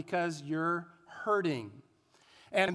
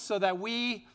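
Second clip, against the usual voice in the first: outdoor voice; slower than usual. Shown as a demonstration. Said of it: "say that with our outdoor voices".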